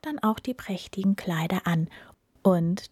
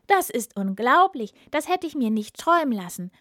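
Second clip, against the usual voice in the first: mock startled cry, higher and louder; feigned fright; 5 semitones higher, 4 dB louder than usual. Cat fakes alarm at the wizard's lion, hammed-up startled cry. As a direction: pretend to be shocked, rushing the words. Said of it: "Der Kater tat sehr erschrocken und rief".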